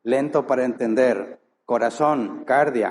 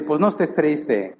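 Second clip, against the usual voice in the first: mocking dismissal.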